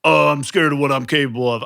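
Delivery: brooding hero. Retold or imitated. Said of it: "I don't like the brooding element".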